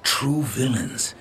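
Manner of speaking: brooding villain. Acted. Dark brooding villain speech.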